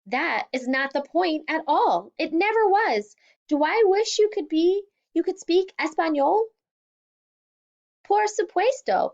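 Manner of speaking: a father's wounded, angry yell; angry shout. Acted. Father shouting back at daughter.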